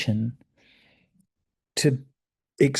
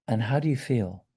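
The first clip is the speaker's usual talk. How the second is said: soft, softer questioning; very gently; 2 semitones lower, 6 dB quieter than usual. Shown as a demonstration. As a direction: ask it gently, as if making space for someone. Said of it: "Just very gently".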